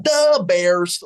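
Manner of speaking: slow, drawn-out Chicago fan voice; mock Chicago accent. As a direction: stretch it out with Chicago attitude. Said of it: "that kind of attitude with Chicago".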